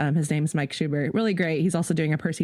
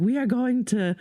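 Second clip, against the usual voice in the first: excited declaration; 5 semitones higher than usual. Retold or imitated. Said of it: "I was like".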